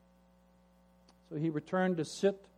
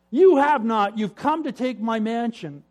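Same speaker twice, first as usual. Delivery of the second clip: loud, high and indignant; furious at the intruder; angry accusation; 6 semitones higher, 9 dB louder than usual. Acted. Brother defends his hut.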